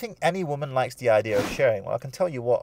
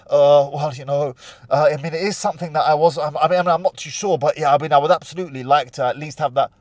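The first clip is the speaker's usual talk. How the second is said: mock shifty stammering, slightly louder; nervous hesitation; 3 semitones higher, 5 dB louder than usual. Shown as a demonstration. Groom answering the family, hammed-up nervous and shifty. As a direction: show a groom squirming. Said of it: "the more nervous you are".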